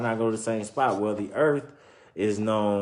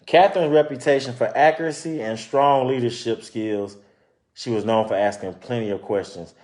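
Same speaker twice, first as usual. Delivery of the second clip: story narration; 4 dB louder than usual. Acted. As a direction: clear read-aloud storytelling voice. Reading picture book aloud.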